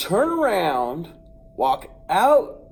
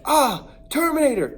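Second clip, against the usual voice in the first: higher, louder startled cry; panicked yell; 10 semitones higher, 6 dB louder than usual. Retold or imitated. Cousin yells at the charging rooster, higher and louder. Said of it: "My cousin's like".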